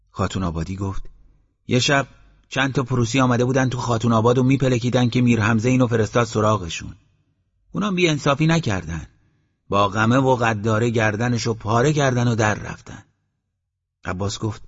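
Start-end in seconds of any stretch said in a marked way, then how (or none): 1.7-13.0 a hint of an amused villager explaining, higher; chatty villager, lightly played; lightly voiced villager. Villager tells the story.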